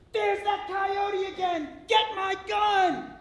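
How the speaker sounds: slow, high, loud alarm shout; farmer screaming. Acted. Farmer spots the coyote again, slow high scream. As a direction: bellow it for the gun. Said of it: "the farmer screams".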